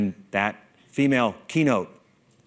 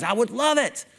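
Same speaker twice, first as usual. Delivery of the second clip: mock longing; 10 semitones higher than usual. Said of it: "We all think".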